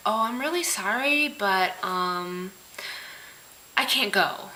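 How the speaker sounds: imitating a hesitant, insincere apology; mock apologetic, trailing into a reluctant excuse; passive-aggressive apology. Person backing out of plans, lightly mocked passive-aggressive. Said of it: "that same passive aggressive vein".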